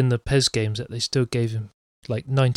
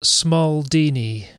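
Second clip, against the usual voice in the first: drawn-out nickname; 3 semitones higher, much slower than usual. Shown as a demonstration. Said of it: "That's what they're calling him now".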